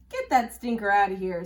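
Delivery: loud, indignant squawking parrot; parrot yelling. A narrator's reading. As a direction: bellow it across the room. Parrot yells at Walter.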